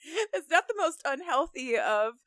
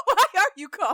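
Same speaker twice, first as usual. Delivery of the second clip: echoed yell; 5 semitones higher, 7 dB louder than usual. Retold or imitated. Echoing the yelled line.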